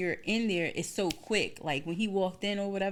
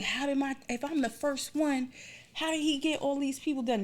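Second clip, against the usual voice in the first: higher-pitched, incredulous questioning; retold disbelief, pitched up; baffled inner thought; 9 semitones higher than usual. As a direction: act out your puzzled reaction. Acting out her puzzled thoughts.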